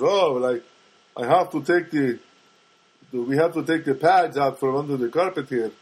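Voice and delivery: light Armenian accent imitation; a hint of an older Armenian man's accent. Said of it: "I don't know if that's a good Armenian accent".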